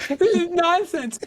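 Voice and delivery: high, slow indignant woman's voice; angry woman again. Pretend. Man in smeared lipstick playing an angry woman, high slow huff. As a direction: huff it out like a furious shopper. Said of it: "I took lipstick and I smeared it".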